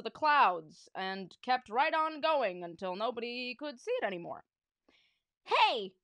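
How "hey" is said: loud, high holler; high-pitched outraged fan yell; fan's shout. A narrator's reading. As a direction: yell out from the bleachers. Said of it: "shouted a fan in the bleachers".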